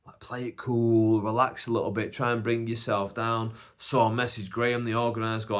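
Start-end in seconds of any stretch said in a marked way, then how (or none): 0.0-3.5 calming self-talk, back to an even voice; composed self-reassurance; playing it cool. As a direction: talk yourself down, easy and relaxed. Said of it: "but I'm also a bit like".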